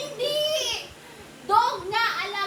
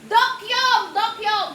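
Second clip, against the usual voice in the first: raised, called-out game clue; pasigaw na hula; 5 dB louder than usual. Real, not acted. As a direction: call the word out loud to your teammate. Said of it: "Huwag mo na lang isigaw". (pasigaw na pagbigkas ng salita)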